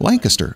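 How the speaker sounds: Lancaster pitched high as LANK-uh-ster; Lancaster stressed on LANK; local pronunciation. Shown as a demonstration. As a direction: repeat Lancaster high, ending squashed. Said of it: "notice that I say it right".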